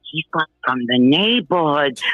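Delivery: lightly played New York neighborhood talk; New York accent. Caller quoting how the neighborhood talks, New York accent. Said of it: "That's how we talk".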